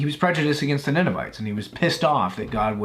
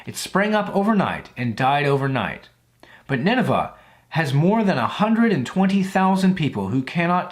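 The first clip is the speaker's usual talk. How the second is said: measured, slightly raised Bible reading voice; scripture reading; 2 semitones higher than usual. Acted. Vlogger reading Jonah to his viewers, solemn scripture reading. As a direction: read the verses like a lesson from the pulpit. Reads Jonah chapter four aloud.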